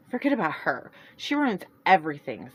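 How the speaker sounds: curt, bitter dismissal; snapped in anger. Acted. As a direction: Celeste dismissing her sister in anger. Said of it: "Celeste snapped in anger".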